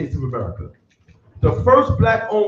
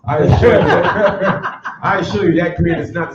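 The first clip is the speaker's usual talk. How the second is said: laughing; 3 dB louder, faster than usual. Real, not acted. Laughing while denying the green.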